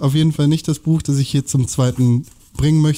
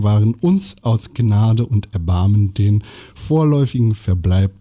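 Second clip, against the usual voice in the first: measured, lower-pitched novel reading; literary read-aloud; 3 semitones lower than usual. Acted. (getragen vorgelesene Romanpassage)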